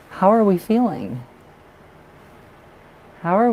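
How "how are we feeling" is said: higher questioning. Real, not acted. Asks client, repeats.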